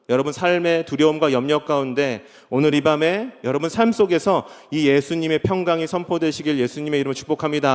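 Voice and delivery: ordinary talk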